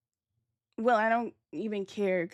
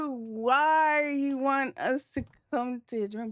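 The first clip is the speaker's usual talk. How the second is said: higher, slow, drawn-out disbelief; incredulous; 4 semitones higher, slower than usual. Retold or imitated. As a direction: stretch it out like you can't believe what you heard. Retelling a suspicious invitation.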